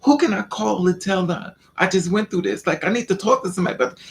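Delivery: panicked. Retold or imitated. Retold panic, who to tell.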